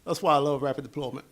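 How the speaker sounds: raspy voice with a cold; hoarse voice from a cold. Real, not acted. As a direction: talk through a sore, hoarse throat. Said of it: "Excuse my voice, I got a little cold".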